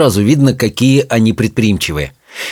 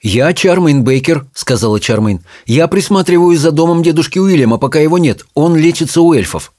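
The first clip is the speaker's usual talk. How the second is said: lightly voiced higher-pitched girl character; hint of a character voice, raised in pitch; Charmain introducing herself; 5 semitones higher than usual.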